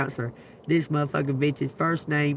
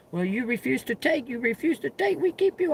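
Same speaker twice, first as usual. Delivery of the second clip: mock doctor threat; 6 semitones higher, 4 dB quieter than usual.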